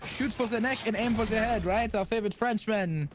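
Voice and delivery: lightly attempted French accent; bad French accent. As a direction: have a clumsy go at a French accent. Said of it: "I don't know how to do a good French accent".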